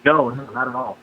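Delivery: tinny phone line; distant call-in audio. Real, not acted. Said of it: "it sounds a little strange".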